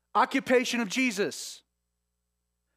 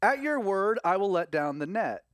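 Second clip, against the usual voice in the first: mild sarcasm. Retold or imitated. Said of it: "I feel a sense like a little sarcasm here".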